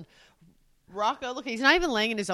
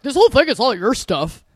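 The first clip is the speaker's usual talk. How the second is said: louder mimicked grumble in a put-on voice; mocking complaint; 7 dB louder than usual. Partner mimicking spouse's complaint about stuff, mocking grumble. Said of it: "'Cause you're like".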